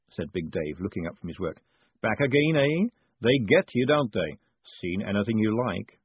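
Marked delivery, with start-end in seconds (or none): 2.0-6.0 pin-shop man. Acted. Shopkeeper greeting a returning pin buyer, chummy and upbeat. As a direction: hail a returning customer knowingly.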